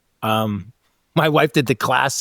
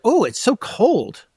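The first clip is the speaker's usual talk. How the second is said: much higher, slow drawn-out moan about the cold; mock whiny hint; 9 semitones higher, slower than usual. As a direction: whine it, fishing for help. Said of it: "But if you're like".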